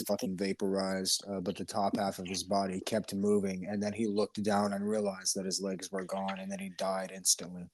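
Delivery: imitated nonchalance, very even pitch; deadpan impression of a veteran recounting a kill; Nicholas Irving. Friend mimicking the ex-soldier's gory story, nonchalant. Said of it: "That's literally, like, how he talks".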